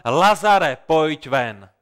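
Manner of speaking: a measured preacher's cry of command; strong-voiced call. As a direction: call out firmly, dropping on the last words. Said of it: "silným hlasem zvolal".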